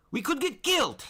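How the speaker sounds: high, loud panicked yell. A narrator's reading. Marco yelling at his friends in panic. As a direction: shout it in fear of dying. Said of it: "he yelled".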